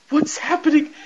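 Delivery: mock panicked high moan; crying and moaning. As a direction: whine it like a terrified man waking from a spell. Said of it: "sounded like Paul Bearer with all the crying and moaning".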